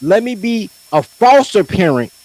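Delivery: slow mocking mother's voice. Mocking Mama D in the argument, slow sneering mother's voice. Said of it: "You're still saying".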